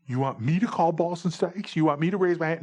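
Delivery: mock the request in disbelief; taken aback, voice lifted; incredulous. Sick umpire asks catcher, incredulous reply.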